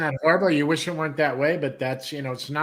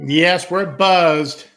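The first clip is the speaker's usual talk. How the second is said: drawled agreement; 7 dB louder, much slower than usual. Acted. Joking reply to buzzed comment.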